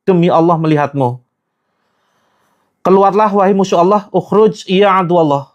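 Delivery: forceful command to the jinn to get out; exorcist's command. Acted. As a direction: drive the demon out.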